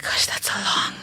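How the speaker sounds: breathy whisper of dismay. Retold or imitated. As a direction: whisper it in shock.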